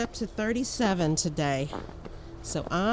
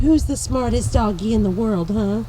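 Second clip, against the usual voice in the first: louder, higher teasing pet praise; doggy praise; 4 semitones higher, 6 dB louder than usual. Real, not acted. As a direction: gush over the dog with a teasing huh. Praising the dog again.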